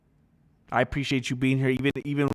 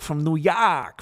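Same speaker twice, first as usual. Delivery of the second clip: put-on New York accent on "York"; 3 semitones higher, 4 dB louder, slower than usual. Streamer reading a New Yorker's message, mock New York accent. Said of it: "I'm a Jordanian from New York".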